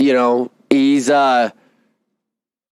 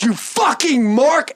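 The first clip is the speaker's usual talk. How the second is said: imitated boss retort; 11 semitones higher, slower than usual. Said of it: "he goes".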